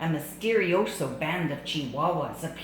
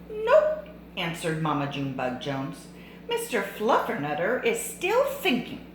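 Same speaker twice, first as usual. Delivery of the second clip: curt mother. Acted. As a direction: shut it down like a firm mom. Mother answers daughter.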